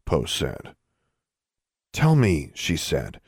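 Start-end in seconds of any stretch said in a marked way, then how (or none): 1.9-2.5 higher-pitched, firm demand; insistent demand. Acted. Alexandra demands answers from the elves, insistent. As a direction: press for an answer.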